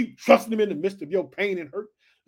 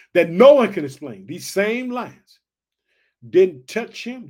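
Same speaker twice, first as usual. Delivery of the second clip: louder, slow emphatic restatement; emphatic repeat; 7 dB louder than usual. Real, not acted. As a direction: drive the point home. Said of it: "repeats for emphasis".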